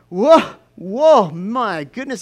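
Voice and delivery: a high, loud "Whoa, whew", then it settles; shocked by the stink. Retold or imitated. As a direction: recoil from a stench. Camper at the lake.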